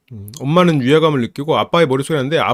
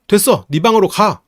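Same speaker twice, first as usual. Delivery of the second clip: higher, louder, slow firm command; angry dad order; 5 semitones higher, 4 dB louder than usual. Retold or imitated. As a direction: send her to her room in anger. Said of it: "아빠도 또 발사해요".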